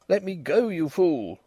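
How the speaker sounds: gasped. A narrator's reading. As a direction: gasp it out while struggling free. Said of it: "I gasped".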